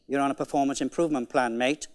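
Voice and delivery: low, quick, deadpan managerial verdict; deadpan manager's threat. Acted. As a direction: dismiss the questioner fast and low. Manager's curt reply to questioning employee.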